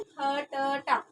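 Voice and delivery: खट्टा drawn out very slowly, each syllable apart; slow separated खट्टा demo; unjoined reading. Shown as a demonstration. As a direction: spell खट्टा out slowly, kha-ta-ta. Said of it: "खा का अलग उच्चारण हो रहा है".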